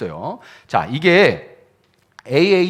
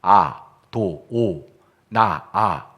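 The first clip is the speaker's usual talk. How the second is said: very slow, separated syllables, pitched low; syllable-by-syllable teaching demo; sounding out vowels; 6 semitones lower, much slower than usual. Shown as a demonstration. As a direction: break it into single sounds with a gap after each. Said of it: "모음만 따오면 뭐가 나와요".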